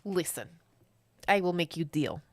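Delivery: put-on lightly foreign-accented villain offering terms; Bond villain accent. Will offering the kids a deal, light villain accent. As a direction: propose a bargain in a mild Bond-villain accent. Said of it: "It's a Bond villain".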